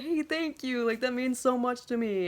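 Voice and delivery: high, light imitation of thanks; imitated grateful reply. Singer thanking fan after show, high grateful reply. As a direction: lift the pitch for imitated gratitude.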